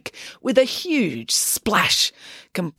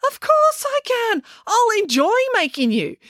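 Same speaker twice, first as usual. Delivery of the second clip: high, gleeful threat; slow, high-pitched relish; menacing glee. A narrator's reading. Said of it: "back over to Matilda gleefully".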